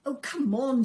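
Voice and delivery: loud, pressing urge; urgent plea. A narrator's reading. Lucy begs the crow to hurry, urgent. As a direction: hurry him along.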